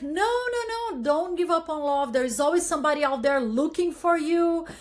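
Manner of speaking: acted-out, impassioned encouragement; emphatic urging. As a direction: jump in high and plead against giving up. Acting out her urging to others.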